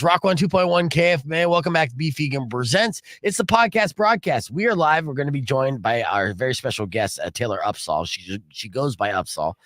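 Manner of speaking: punched-up DJ welcome, settling then lifting; radio host tease. Real, not acted. Host welcoming listeners back to the podcast broadcast, radio DJ style. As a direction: sell it like a live radio tease.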